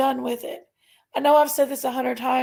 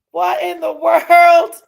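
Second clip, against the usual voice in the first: amazed; 5 semitones higher, 10 dB louder, slower than usual. Real, not acted. Amazed at more gifts.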